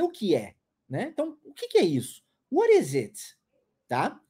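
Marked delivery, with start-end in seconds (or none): 2.5-3.4 "What" raised, falling after; stress on what. Shown as a demonstration. Teacher repeats the question with a lift on "What". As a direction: lift "What", drop through "is it". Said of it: "Olha a entonação".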